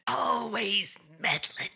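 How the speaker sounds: slow, drawn-out spooky line; ghost voice quote. Retold or imitated. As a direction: draw it out like a ghost. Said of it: "he said".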